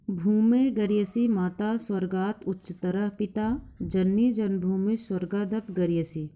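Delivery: slow, measured verse recitation; a teacher chanting a verse for the class; shloka recitation. Acted. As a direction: recite the Sanskrit verse deliberately, word by word.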